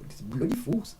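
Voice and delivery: high, mocking Indian-accented quote. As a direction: lightly put on an Indian accent. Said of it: "Even Indian guy said".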